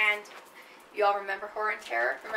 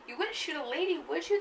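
grandmother pleading; 7 semitones higher than usual. Acted.

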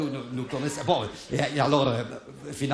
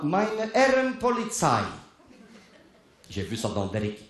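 halting foreign-language mime; broken German; 3 semitones higher than usual. Retold or imitated. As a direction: struggle to explain in bad German. Broken German to Swiss police.

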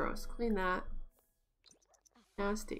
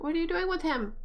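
high, incredulous question; puzzled alarm; 6 semitones higher, faster than usual. Real, not acted. Player questions her Sim about the toddler, incredulous. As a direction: ask it high, in disbelief.

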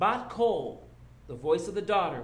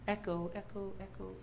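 softer and softer echo, dying away; fading echo; 3 semitones higher, 9 dB quieter than usual. Shown as a demonstration. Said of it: "the echo of his voice".

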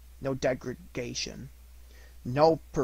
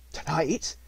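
startled cry; 4 semitones higher, 3 dB louder than usual. Acted. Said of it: "cried Scrooge".

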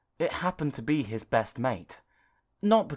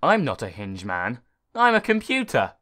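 computer replying; 6 dB louder than usual. Acted. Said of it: "replied the computer".

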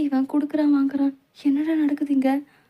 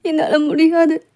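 crying refusal; 4 semitones higher than usual. Acted. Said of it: "அழுதுட்டு விடுவாங்க".

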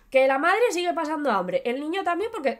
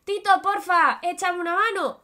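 pleading, high and louder; begging kid; 7 semitones higher, 4 dB louder than usual. Acted. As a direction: beg for a helping hand, voice up high. Chaval suplica atrapado en la cueva. (chaval suplicando, voz aguda)

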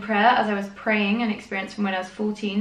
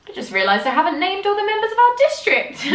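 higher, mock earnest read; reading a missionary's earnest journal in a high mock voice; 12 semitones higher, 4 dB louder than usual. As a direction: send up the letter writer's earnestness. Reading missionary's earnest letter aloud.

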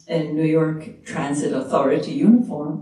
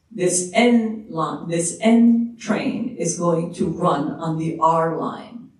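conductor announcement; slower than usual. Retold or imitated. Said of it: "some conductor announced".

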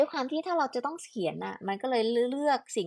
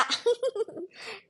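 high giggle; 13 semitones higher than usual. Real, not acted. Laughs at own mock attempt.

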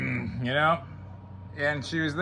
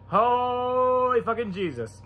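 slow, high awed curse; awestruck; 8 semitones higher, slower than usual. Retold or imitated. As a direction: drag it out in disbelief.

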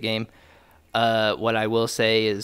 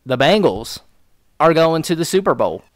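louder and higher, triumphant announcement; excited shout; 6 semitones higher, 9 dB louder than usual. Real, not acted. Fan announcing the team made the Super Bowl, shouting. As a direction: belt it like a victory cry. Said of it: "Let me say it again".

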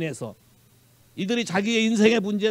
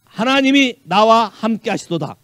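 하나님이 나와 함께 하시도다 proclaimed loud, stress on 하나님이; a proclaiming second take of 하나님이 나와 함께 하시도다; loud declaration; 2 semitones higher, 6 dB louder than usual. Shown as a demonstration. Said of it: "와우!".

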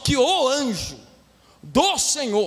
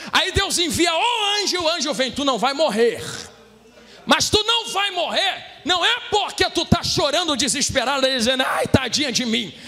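full-force sermon delivery; impassioned Brazilian pulpit preaching; fervent preaching. Real, not acted. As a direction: preach it hard to the congregation, stretching key phrases.

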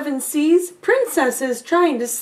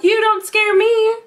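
brave, louder and higher shout; defiant cry; 8 semitones higher, 5 dB louder than usual. Acted. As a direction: stand up to the monster. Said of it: "Eliza thought".

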